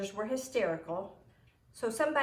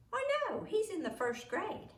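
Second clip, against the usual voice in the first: Imogene; 12 semitones higher than usual. Acted. Imogene answers the nurse.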